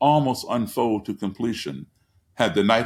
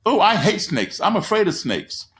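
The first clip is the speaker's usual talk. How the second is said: 1 imitating kids; 7 semitones higher than usual. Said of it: "They're like".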